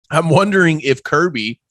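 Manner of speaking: chewing ice, slow words; ice in mouth. Real, not acted. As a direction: speak while crunching ice. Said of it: "while I chew this ice".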